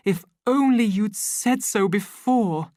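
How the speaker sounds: a woman pressing her eager invitation; eager lover. A narrator's reading.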